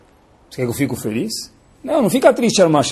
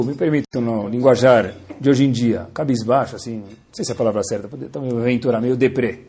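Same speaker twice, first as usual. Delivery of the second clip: ordinary talk, nothing marked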